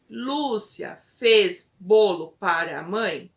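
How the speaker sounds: resposta da criança, dita devagar; repetição pausada. Acted. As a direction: repita a frase devagar, palavra por palavra. Voices a child repeating the sentence. (repetição lenta e bem separada)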